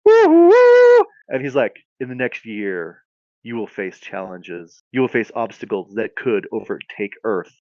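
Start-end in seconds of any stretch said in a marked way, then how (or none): 2.0-7.5 solemn wizard. Acted. Wizard warns chosen woman of coming challenges, solemn. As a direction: intone it like a wizard foretelling trials.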